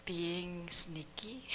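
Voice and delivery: slow, whispered embarrassed admission. Real, not acted. Student admits her bad habit to the master in a slow whisper. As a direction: barely breathe it out, slowly, ashamed.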